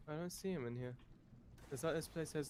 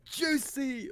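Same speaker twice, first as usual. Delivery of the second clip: put-on high, squeaky cat girl squeal; cutesy nya speak; 13 semitones higher, 9 dB louder than usual. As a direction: gush it like an anime cat girl. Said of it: "hitting him with the cat girl speak".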